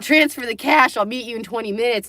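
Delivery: high, loud joking burst; mock eager joke. Joking she nearly took grandpa's millions, loud laughing mock deal. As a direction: blurt it out like a cheeky joke. Joking about taking the money.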